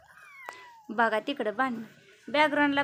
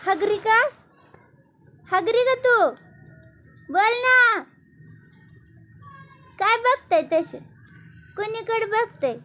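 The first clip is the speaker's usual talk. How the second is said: high, louder cooing at the kitten; 7 semitones higher, 4 dB louder than usual. Real, not acted. Woman asks the kitten in high, loud baby talk.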